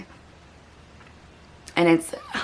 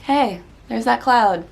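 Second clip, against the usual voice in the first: gentle kindness; 3 semitones higher than usual. Retold or imitated. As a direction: send it off kindly, like to a friend. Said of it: "I'm like".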